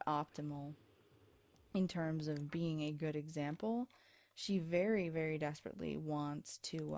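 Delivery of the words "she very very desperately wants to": talking through hiccups; words broken by a hiccup. Real, not acted. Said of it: "excuse me, I have the hiccups".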